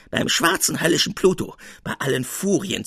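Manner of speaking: high, loud furious yell; shrill scream. A narrator's reading. Old man screaming at Salvator in fury. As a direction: scream it out in a rage. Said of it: "schrie mit gellender Stimme".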